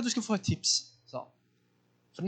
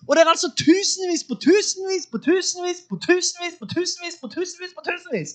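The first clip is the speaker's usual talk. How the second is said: building then fading list; 9 semitones higher, 4 dB louder than usual. Real, not acted. Preacher stresses the crowds to listeners, rising then fading. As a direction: pile on tusenvis after tusenvis, then let it sink. Piling repetition.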